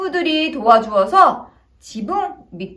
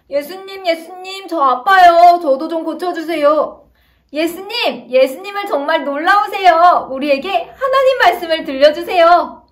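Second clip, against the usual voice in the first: pleading crowd; 4 semitones higher, 4 dB louder than usual. Acted. Crowd begging Jesus for help.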